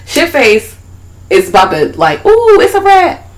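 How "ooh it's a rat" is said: squeaky excited doll; childlike character voice. Retold or imitated. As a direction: voice a giddy little creature. Voicing Shitface in retelling.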